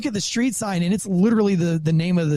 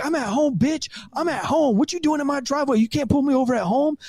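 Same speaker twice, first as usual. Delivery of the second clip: higher, cocky mock protest; defiant driver; 7 semitones higher than usual. Cop imitating the defiant driver at his home, lightly voiced. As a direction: play the smug driver talking back. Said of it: "he's like".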